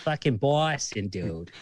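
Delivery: slow, drawn-out Boston accent; Boston accent, dragging the words. Shown as a demonstration. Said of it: "the Boston accent right".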